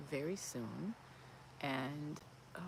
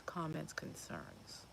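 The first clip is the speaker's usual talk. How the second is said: softer, slowed down; quiet; 7 dB quieter, much slower than usual. Real, not acted. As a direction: drop the voice to a hush. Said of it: "I'm starting to speak a little quieter".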